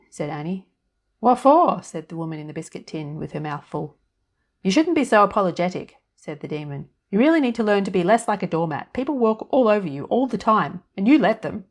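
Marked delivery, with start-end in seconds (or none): 1.2-1.8 put-on high, loud, chirpy little old woman; fairy godmother voice. A narrator's reading. Tiny woman in the biscuit tin greeting Annie, high and chirpy. 4.6-11.6 a touch louder, scolding inner demon; nagging demon. Acted. Demon on her shoulder nagging Annie, mildly sneering.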